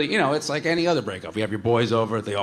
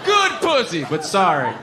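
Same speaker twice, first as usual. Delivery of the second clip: very high, loud hooting shout; crude mock shout; 5 dB louder, slower than usual. Comic imagining trashing his ex, high loud hooting shout. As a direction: whoop it out like a crude frat boy. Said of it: "if I was like".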